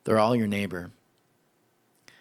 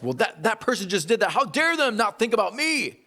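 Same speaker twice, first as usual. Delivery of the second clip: mock indignant inner voice; 10 semitones higher than usual. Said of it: "It gets in our heads".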